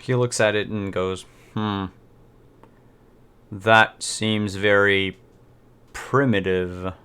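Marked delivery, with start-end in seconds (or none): 1.5-6.9 lightly voiced, slow appraisal; unimpressed buyer. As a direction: draw it out with a touch of disdain. GM voices unimpressed buyer examining picture.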